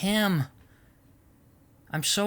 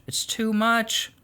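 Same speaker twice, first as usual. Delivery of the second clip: slow weary emphasis; 5 semitones higher, slower than usual. Real, not acted. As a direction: drag out "It's too much." slowly, leaning on "much". Repeats phrase, slower and weighted.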